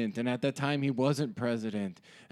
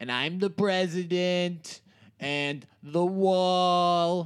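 high, very slow drawl, "wall" dragged out; 5 semitones higher, 4 dB louder than usual. Showing an impression that starts with the lips: Donald Trump impression. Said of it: "like Donald Trump. Starts with the lips, and it's something like this".

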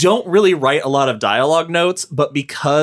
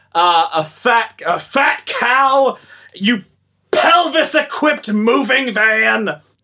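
mock yelling, pitched much higher; 8 semitones higher than usual. Retelling what a man yelled at a woman before hanging up, imitating someone yelling. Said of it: "I'm gonna yell because that's what he's doing".

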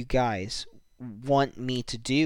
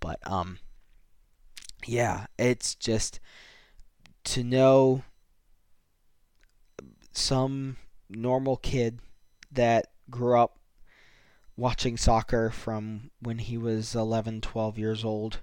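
touched, heartfelt, slightly emotional, earnest tone. Speaker looks back on the past year, getting a little emotional. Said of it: "I'm kind of getting a little emotional".

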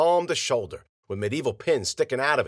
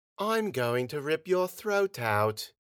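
sleepy, drowsy, doped-up, drugged-sounding voice; 4 semitones higher, 4 dB quieter than usual. A staring woman finally speaks to the narrator, in a drowsy, drugged voice. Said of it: "in this drowsy, drugged voice".

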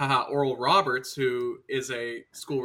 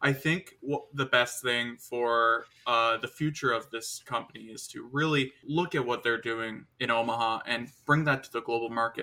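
ordinary delivery

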